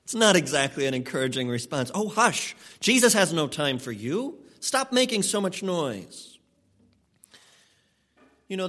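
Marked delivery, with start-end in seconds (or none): 1.9-6.4 mild mock shushing, pitched up at the start; imitated scolding hush. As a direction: play an annoyed bystander shushing someone. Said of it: "many warned him to be quiet".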